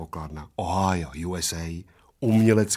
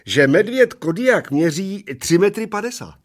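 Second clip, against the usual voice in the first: quiet roar; 8 semitones higher, 6 dB louder than usual. Acted. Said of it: "relativně tiše zařval".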